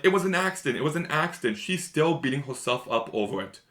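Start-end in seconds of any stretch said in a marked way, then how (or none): 0.0-0.8 higher, a hint of tearful pleading; tearful plea. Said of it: "breaks down to tears being like". 0.8-1.6 a quieter, fading echo of the plea; softer tearful repeat. Retold or imitated. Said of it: "breaks down to tears being like".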